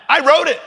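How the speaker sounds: high, punched "wrote"; punchline reveal. Retold or imitated. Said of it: "I'll give you one even better".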